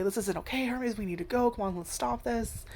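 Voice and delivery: whisper-close plea to stop; quietly. Retold or imitated.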